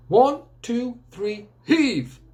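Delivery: rally the team to heave; calling out. Acted. Grandpa calling team to pull.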